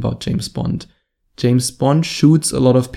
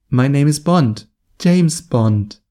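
higher pitched; 3 semitones higher, slower than usual. Shown as a demonstration. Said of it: "very high-pitched voice".

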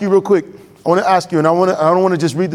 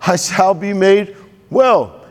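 woman's hopeful vow; 2 semitones higher, slower than usual. Acted. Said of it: "For she said".

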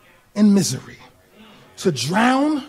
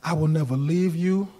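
God's gentle reassurance; 4 semitones lower, 3 dB quieter than usual. Acted. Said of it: "And God is saying".

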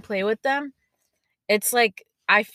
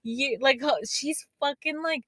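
high, drawn-out incredulous question; stunned disbelief; 5 semitones higher, slower than usual. Retold or imitated. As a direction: reenact being floored by what a kid knows. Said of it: "I was so dead".

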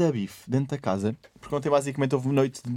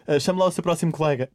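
unfazed host moving on; Cristina; 3 semitones higher than usual. Retold or imitated. Host to contestant after the fight, pretending nothing happened, serenely. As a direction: imitate a composed presenter carrying on. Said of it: "pávida e serena".

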